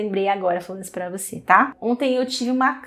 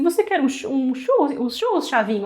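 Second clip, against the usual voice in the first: lightly voiced coaxing TV character; imitating Chaves scene; 3 semitones higher than usual. Husband teasing his wife, mimicking the Chaves churros scene with a playful offer. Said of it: "sabe aquela cena do Chaves com o churros".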